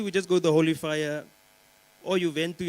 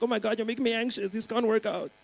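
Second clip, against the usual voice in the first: anxious; 6 semitones higher than usual. Retold or imitated. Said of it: "she's like".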